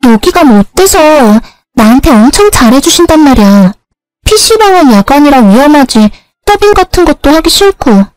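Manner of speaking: high-pitched little-sister voice, protesting; acted younger sister, earnest and insistent; pleading younger sister.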